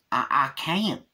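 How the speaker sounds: high, halting stammer in character; Cletus. Retold or imitated. Man trying to dump a rat at the lake, high stammer. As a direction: stammer helplessly in a put-on voice. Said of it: "Cletus goes up trying to".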